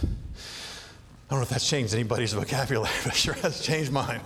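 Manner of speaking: low, confiding whisper; whispered aside. Real, not acted. Preacher whispering a personal aside to the congregation. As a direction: lean in and whisper it.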